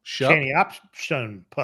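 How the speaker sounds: slow, "Channy Option Pup" spelled out word by word; mock typo reading. Shown as a demonstration. Cohost teasing the slide typo, slowly reads "Channy Option Pup".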